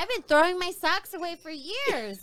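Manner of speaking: loud, high lament; exasperated regret. Real, not acted. Seller lamenting years of discarded socks, exasperated.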